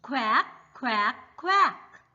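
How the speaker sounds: playful duck imitation; duck quack. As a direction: play the duck for the kids. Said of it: "Duck says".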